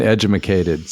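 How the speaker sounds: edumacated said as ed-yoo-MAH-cated, mock dumb; play-misspeak edumacated, tongue in cheek; jokey edumacated. Podcast host joking about staying informed, mock word. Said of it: "It's all about being edumacated".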